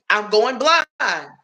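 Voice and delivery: ex-husband pleading he is going blind; mock whiny ex. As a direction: drag out the self-pity.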